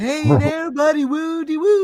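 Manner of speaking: very high, loud, drawn-out, wild crazy-sounding voice. Imitating how a friend greeted someone: imitating Sam Hill. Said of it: "Did you hear how he sounded?".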